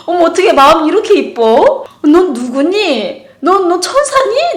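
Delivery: loud, high, slow awed cooing; gushing wonder. Retold or imitated. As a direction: marvel at an angelic child. Mother gushing over boy. (아이에게 감탄하며 크고 높게 천천히)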